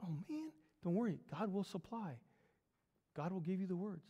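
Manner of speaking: soft, easy comfort; quiet reassurance. Acted. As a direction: reassure him under your breath. Old preacher quietly reassures young one.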